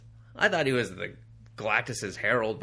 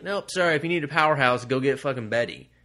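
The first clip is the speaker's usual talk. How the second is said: mock scared Hulk; 2 semitones higher, 4 dB louder than usual. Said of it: "He's afraid".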